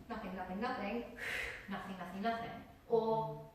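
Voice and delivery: up-and-down breathy nothing; showing breath that surges and dies; uneven breath. Shown as a demonstration. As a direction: push then fade each nothing. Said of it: "up and down".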